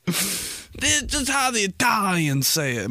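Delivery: dad's defence. Retold or imitated. Dad defending his pronunciation to his son, slow mock dad voice. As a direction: imitate dad, drawing the words out. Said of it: "My dad will say that after".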